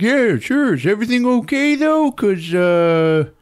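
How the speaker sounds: high, fast squeaky caller; high put-on phone voice. Man on the phone asked for an ambulance, high put-on voice. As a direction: play the guy on the line.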